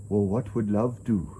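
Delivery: lightly imitated Indian accent; a small touch of an Indian accent; Deepak Chopra's accent. Guru's head pops up to advise him, lightly imitated Indian accent. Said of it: "in his little accent".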